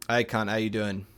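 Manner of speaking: casual Cockney greeting; matey Cockney swearing; Cockney accent. Acted. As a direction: greet a stranger like a cheeky Cockney. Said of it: "I'm doing a Cockney accent".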